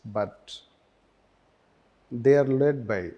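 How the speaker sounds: measured note-dictation with long pauses; slow dictation. Real, not acted. Teacher giving students notes on tribunals, slow dictation. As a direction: dictate phrase by phrase, leaving time to write.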